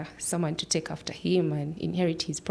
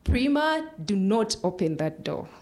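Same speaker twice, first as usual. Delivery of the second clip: retold mother's shout; 2 semitones higher than usual. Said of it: "my mom shouted".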